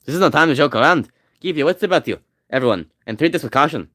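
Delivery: warrior voice drifting into Russian; lightly Russian-tinged Viking warning; Scottish Viking accent, too Russian. Acted. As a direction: attempt Scottish Viking but sound Russian. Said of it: "it sounds too Russian".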